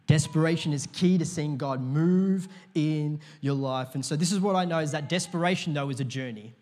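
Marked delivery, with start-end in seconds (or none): 0.1-3.9 the same line again, louder and firm; louder restatement. Shown as a demonstration. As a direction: proclaim it to the room with force. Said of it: "But desperation is key to seeing God move".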